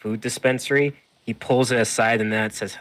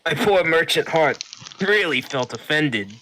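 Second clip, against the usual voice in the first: high, loud merchant voice; eager shopkeeper, pitched way up; 8 semitones higher, 6 dB louder than usual. Acted. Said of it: "And he says".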